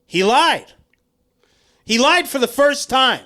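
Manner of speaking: loud, high-pitched playful indignation; mock outrage. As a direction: cry it out as if betrayed. Mock outrage at broken promise.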